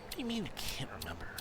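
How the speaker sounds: hushed, exasperated whisper; whispered disbelief. Real, not acted. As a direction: whisper it under the breath, incredulous. Muttered disbelief at forgetful game answer.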